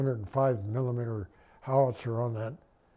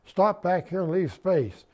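raised voice at the driver, a bit higher; calling out sharply to a driver bunching up; retold holler; 6 semitones higher, 3 dB louder than usual. Sergeant hollers at his Jeep driver to keep distance. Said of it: "I hollered at the Jeep driver".

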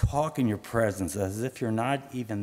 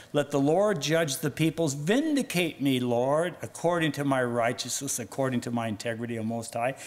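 raised, emphatic plea to God, easing toward the end; crying out prayer; 4 semitones higher than usual. Acted. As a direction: declaim it as David's plea. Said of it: "David frequently cried out".

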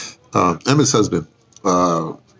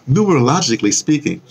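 relishing the word; 4 semitones higher than usual. Real, not acted. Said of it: "I always love to say that word".

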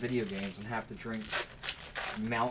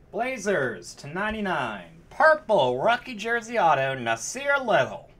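high, loud, swooping hype shout; real thrilled yell; excited card call; 8 semitones higher, 10 dB louder than usual. Real, not acted. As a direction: build to a hollered reveal of the pull. Calling out a big card pull.

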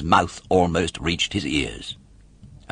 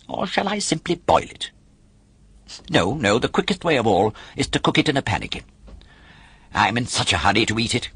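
a hint of a hungry puppet, higher and hurried in places; lightly voiced eager puppet; 5 semitones higher than usual. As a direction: chatter eagerly about cooking the egg, a little higher. Pinocchio voiced, planning egg.

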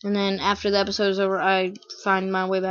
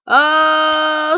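long, loud, higher "oh"; drawn-out "oh"; 4 semitones higher, 8 dB louder than usual. Pretend. Gamer hamming up his promo, drawn-out cry. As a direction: hold a loud "oh".

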